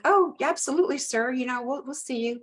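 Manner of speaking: high, overeager agreement; mock eager yes sir. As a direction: jump at the invite, too keen. Eager reply to sergeant's invite.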